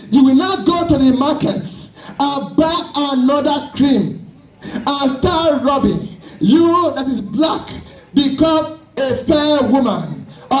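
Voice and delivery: forceful, emphatic sermon delivery; fervent preaching. Real, not acted. Preacher warning the congregation about false hair, fervent preaching.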